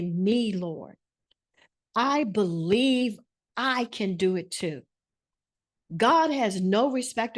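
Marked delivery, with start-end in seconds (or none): 0.0-4.8 heartfelt declaration. Shown as a demonstration. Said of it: "put your hand on your heart and say".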